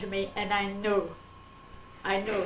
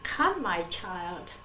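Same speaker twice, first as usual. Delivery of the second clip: slow voice of the Lord; much slower than usual. Retold or imitated. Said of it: "he says".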